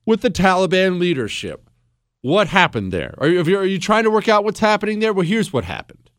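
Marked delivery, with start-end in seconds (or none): none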